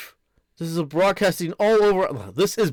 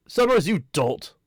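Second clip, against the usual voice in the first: higher, sharper second try; sneering villain retake; 3 semitones higher than usual. Shown as a demonstration. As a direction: spit the name out with contempt.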